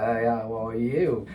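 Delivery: cheeky mock-British greeting, rising in pitch; British accent. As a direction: pop off in a made-up British accent with swag. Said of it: "pop off in a British accent".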